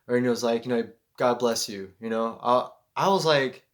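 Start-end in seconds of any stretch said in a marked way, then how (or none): 1.2-1.9 wondrous blessing. Retold or imitated. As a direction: say it gently, like a sincere blessing. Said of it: "it was this wondrous thing".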